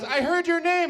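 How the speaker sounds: a proud mother voiced up high; mom's proud voice. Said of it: "My mom comes up to me".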